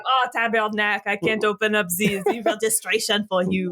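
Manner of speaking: put-on thick joke Québécois French accent; hammed-up French-accented English. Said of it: "Just start speaking in French".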